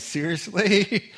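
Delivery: slow, high, drawn-out disbelief; incredulous. Acted. Jehoshaphat doubting the fawning prophets, slow and high. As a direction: stretch the word in mock disbelief. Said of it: "he looks at him and goes".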